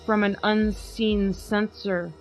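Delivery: slow, grave recital of Poe; dramatic poem reading. Acted. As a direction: read it like a gothic poem by candlelight. Reads poem aloud.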